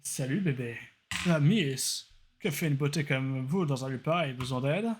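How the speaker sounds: a hint of a cocky charmer chatting up a girl; kéké voice. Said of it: "Il doit avoir une voix de kéké".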